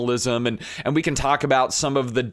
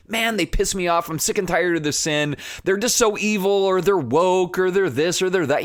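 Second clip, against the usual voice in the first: mock angry judgment; 5 semitones higher than usual. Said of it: "looking at the masses going".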